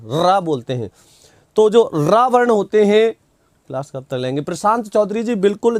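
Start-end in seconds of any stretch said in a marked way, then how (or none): 0.1-0.4 "र" with the tongue vibrating first; trilled र. Shown as a demonstration. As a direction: roll the "र" on the tongue tip. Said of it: "जीवा को पहले कंपन करना". ("र" जीभ में कंपन के साथ)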